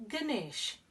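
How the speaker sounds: Ganesh said slowly, gə-NESH with a falling end; Ganesh said clearly. Shown as a demonstration. Storyteller teaching children the name Ganesh, said carefully. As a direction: spell out Ganesh for young listeners. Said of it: "so his name is".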